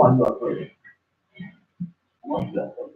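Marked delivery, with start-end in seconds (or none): 2.2-2.9 whispered, much softer repeat. Real, not acted. Preacher pressing the listener, whispering the question.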